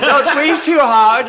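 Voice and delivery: loud, high, drawn-out holler; mock bellowing; imitated yell. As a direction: yell it slowly, mimicking the other guy. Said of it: "the other guy was yelling".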